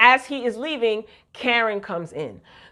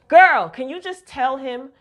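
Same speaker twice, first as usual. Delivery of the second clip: worked up, slightly raised and higher; exasperated plea, voice rising; getting loud; 4 semitones higher, 4 dB louder than usual. Real, not acted. Viewer begging the show's Danny to tell him, getting loud. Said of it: "I'm getting loud".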